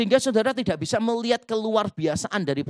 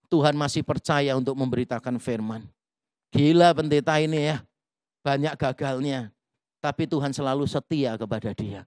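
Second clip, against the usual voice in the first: low-pitched, wry self-talk; talking to himself in the mirror; 6 semitones lower than usual. Retold or imitated. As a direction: say it low, as if to your own reflection. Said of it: "membiasakan diri ngomong gini".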